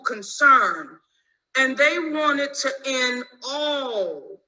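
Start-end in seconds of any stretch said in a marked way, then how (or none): 1.6-4.4 slow, with all pressed home; stress on all. Shown as a demonstration. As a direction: lean hard on the word all, slowly. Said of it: "and I emphasize the word all".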